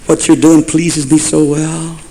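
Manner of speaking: soft, slow, drawn-out divine call; voice of the Lord. Acted. Preacher as the Lord speaking in Solomon's dream, soft and slow. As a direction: call softly as God in a dream, stretching the words. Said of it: "the Lord in one night in a dream said".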